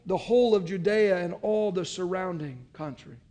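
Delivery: measured, solemn Bible reading; scripture reading. Acted. Pastor reads the gospel to the congregation, solemn. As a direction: read the passage with weight.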